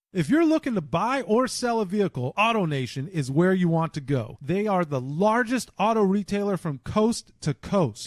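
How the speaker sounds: upbeat sponsor ad read; podcast host reading a sponsor ad. Acted. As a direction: sell it like a radio spot. Host reads car dealer ad.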